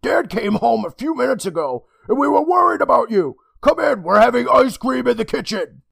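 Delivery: high, sweet mother voice; sugary sweet mom calling; mom's voice. Acted.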